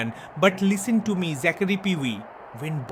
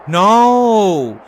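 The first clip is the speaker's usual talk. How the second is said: put-on full shouted "No!" in a Bangladeshi accent; 10 dB louder than usual. Heel insisting he never dies, shouting in the accent. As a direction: yell it out defiantly.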